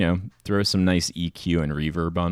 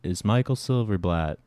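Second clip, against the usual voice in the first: measured sign-off with long pauses; Michael Silverblatt; 4 semitones higher than usual. Acted. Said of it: "neither of us are calm enough".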